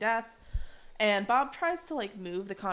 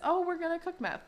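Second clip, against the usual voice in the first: put-on excited kid; 9 semitones higher than usual. Tina's excited line.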